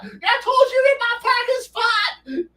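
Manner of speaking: put-on very high, slow growly old-timer voice; grumpy old man. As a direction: drag it out like a cranky veteran. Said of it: "the old man go".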